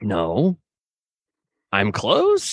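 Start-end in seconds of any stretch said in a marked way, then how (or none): 1.7-2.5 on the verge of tears. Real, not acted. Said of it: "You gonna cry?".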